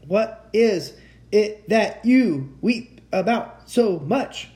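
loud, high words broken by gasps; out of breath. A narrator's reading. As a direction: force out the question word by word, winded. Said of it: "trying to get his breath".

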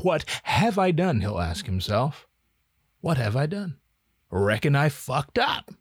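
a hint of rapper E-40 muttering to himself; E-40 impression. E-40 realizing his mistake, mild regretful E-40 voice. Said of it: "I could do an E forty impression".

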